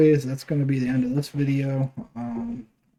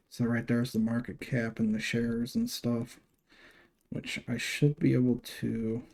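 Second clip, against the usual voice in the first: talking through hiccups; hiccuping between words; 4 dB quieter than usual. Real, not acted. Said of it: "excuse me, I'm hiccuping over here".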